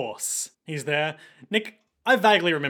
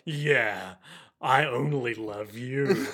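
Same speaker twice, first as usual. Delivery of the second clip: low sinister voice; 4 semitones lower, much slower than usual. Retold or imitated. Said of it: "He's like".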